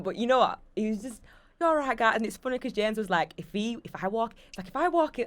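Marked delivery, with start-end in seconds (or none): 1.6-2.1 rough go at Essex, higher and louder; attempted Essex accent. Mimicking the smug housemate's brush-off in a rough Essex accent. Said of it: "I can't even do the Essex accent". 3.4-5.3 put-on halting stab at a Scottish accent; attempted Scottish accent. Retelling a housemate's threat in a faltering Scottish accent. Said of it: "I can't even do accents".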